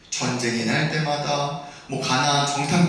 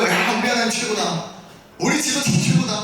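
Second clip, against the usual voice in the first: lively acted crowd praise; mock cheering; 3 semitones higher than usual. Israelites praising once water turns sweet, mock cheering. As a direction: play the easily pleased crowd.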